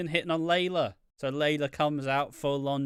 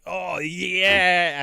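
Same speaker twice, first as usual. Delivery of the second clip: loud, raised mock leer; mock eager Miz; 4 semitones higher, 8 dB louder than usual. Miz blindfolded, expecting Layla, loud mock eagerness. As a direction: gush it like a giddy fool. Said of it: "obviously he's like".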